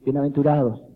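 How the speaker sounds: a mild mock of the solemn film preacher; solemn movie Jesus. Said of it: "No es como en las películas". (leve imitación del Cristo solemne de película, más grave)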